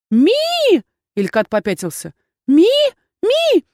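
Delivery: high squeaky chirp of a small pet; tiny creature squeak. Acted. Little familiar squeaks at the dean, high squeaky chirp. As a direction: chirp it like a tiny startled animal.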